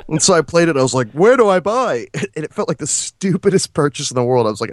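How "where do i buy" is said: eager, excited. Retold or imitated. Retold eager purchase.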